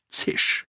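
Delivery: voiceless hissing "zisch"; short whispery sound effect; imitated sizzle. A narrator's reading. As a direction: let the word sizzle like a flame fed oxygen. Imitates flames fed by oxygen.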